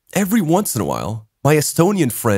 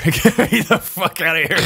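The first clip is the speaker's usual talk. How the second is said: the plea repeated through a laugh; 5 semitones higher than usual. Retold or imitated. Repeating his plea to his friend, laughing through it. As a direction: crack up as you beg again.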